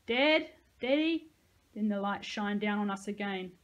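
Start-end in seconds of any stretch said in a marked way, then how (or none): 0.1-1.3 put-on slow, high crying child calling; grieving child. A narrator's reading. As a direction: wail for his father like a child. Boy calling for dead father.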